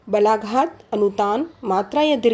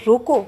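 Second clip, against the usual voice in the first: रोको louder, cut off alone; stress on रोको; 5 dB louder than usual. Shown as a demonstration. Teacher showing where the stress falls, loud stressed रोको. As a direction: punch रोको as a separate word. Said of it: "पर बलाघात करके दिया है".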